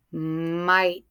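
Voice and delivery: MIGHT slowly, holding the m, then a clear t; sounded out. Shown as a demonstration. Teacher letting class hear silent letters, MIGHT sounded out. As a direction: stretch MIGHT from a long m to a crisp t. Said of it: "Listen to it again".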